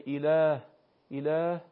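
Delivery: unsqueezed h in اله; plain hā. Shown as a demonstration. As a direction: let the breath out freely on ه in اله. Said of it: "برخلاف حرف ها".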